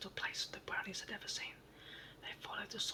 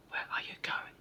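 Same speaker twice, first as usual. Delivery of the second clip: whispered shout; 5 dB louder than usual. Acted. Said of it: "shouted Skip".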